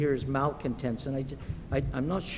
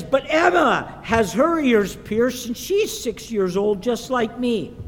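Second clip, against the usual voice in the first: put-on higher, louder child's protest; protesting little girl; 6 semitones higher, 5 dB louder than usual. Olivia argues with her mom, protesting little girl. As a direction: plead like an indignant six-year-old. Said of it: "And, and Olivia says".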